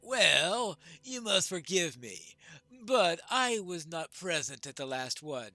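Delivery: measured, declaimed pledge; lightly voiced dwarf lord. Dwarf pledges attendance and his axe, lightly declaimed. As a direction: lightly act a dwarf giving his word.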